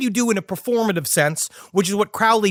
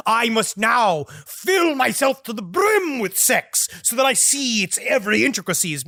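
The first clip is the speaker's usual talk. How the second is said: pompous declaration. Pretend. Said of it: "into, like, a".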